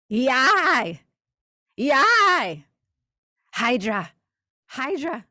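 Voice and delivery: shouted high chant; ritual shout. Acted. Creature crying out to Hydra, high ecstatic shout. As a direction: cry out to the dark gods.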